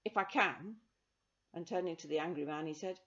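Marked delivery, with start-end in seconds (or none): 0.0-0.8 loud call for attention; boy on a chair shouting to the crowd. Acted. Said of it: "he shouted".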